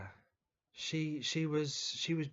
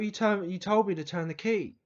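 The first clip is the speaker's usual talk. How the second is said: higher, louder self-defence; retold protest; 4 semitones higher, 5 dB louder than usual. Pupil defending himself to the teacher over the gas, indignant protest. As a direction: imitate an indignant pupil answering back.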